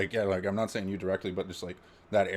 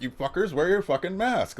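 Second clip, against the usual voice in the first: higher and louder scolding shout; mock angry yell; 11 semitones higher, 5 dB louder than usual. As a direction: bark at the maskless crowd. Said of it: "there's the anger".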